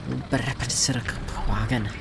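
slow, exaggerated fake German accent. Shown as a demonstration. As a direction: lean into a comedic German accent. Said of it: "I do want to sound a little bit German".

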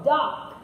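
"duck" said cleanly with a short u; correct duck. Shown as a demonstration. Teacher correcting learners: a clear "duck". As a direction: say "duck" crisply, not "dog".

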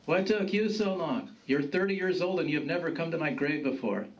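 lightly voiced gruff grandfather; reproachful grandfather. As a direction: scold a grandson lightly, as his dead grandfather.

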